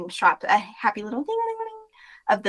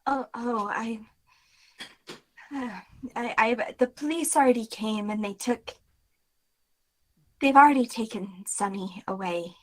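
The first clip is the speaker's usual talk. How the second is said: upset clerk. Acted. Tired clerk recounts.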